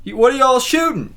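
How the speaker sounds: high-pitched nosy neighbor voice; lightly voiced nosy local; curious neighbor. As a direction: pipe up high like a curious stranger. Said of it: "the window and goes".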